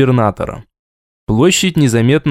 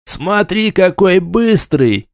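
mocking laugh; 6 semitones higher, much slower than usual. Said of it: "раздался смешливый голос".

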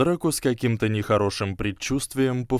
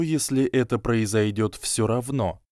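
usual speaking voice

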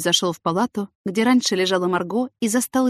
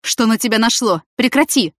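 sharp, louder rebuke; flaring up; 4 semitones higher, 6 dB louder than usual. Acted. Doctor cutting off the jealous colleague, sharp and louder. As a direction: snap at her to stop. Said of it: "вспылил Виталий".

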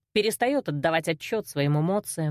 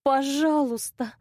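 higher, slow, shaky-voiced please; trembling plea; 6 semitones higher, slower than usual. A narrator's reading. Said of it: "произнесла я дрожащим голосом".

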